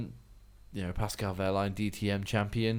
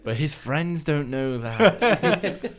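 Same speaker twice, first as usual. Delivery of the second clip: laughing; 5 semitones higher, 7 dB louder, much slower than usual. Real, not acted. Laughing reply.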